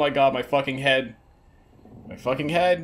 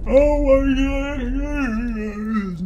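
startled; 12 semitones higher, much slower than usual. Real, not acted. Startled by a jump scare.

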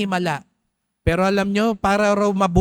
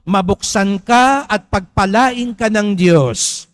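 proclaimed blessing; 3 semitones higher, 4 dB louder, slower than usual. Shown as a demonstration. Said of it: "sabihin mo".

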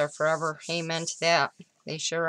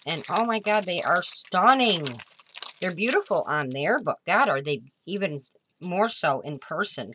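excited gushing; 2 semitones higher, 4 dB louder than usual. Real, not acted. Gushing over the flowers.

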